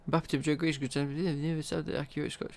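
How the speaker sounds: put-on Scottish accent. Streamer reading out a transfer comment in a mock Scottish accent. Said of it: "that's an accurate Scottish accent".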